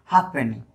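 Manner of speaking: हाफ पेनी with the F barely touched; हाफ पेनी, faint F running into p; very light F. Shown as a demonstration. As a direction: soften the F of हाफ almost away before पेनी. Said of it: "थोड़ा सा एकदम हल्का किया जाता है".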